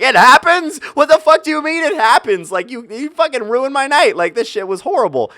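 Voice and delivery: high, loud incredulous comeback; outraged retort. Retold or imitated. Firing back at the girl's excuse, high and loud. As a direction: throw her words back at her.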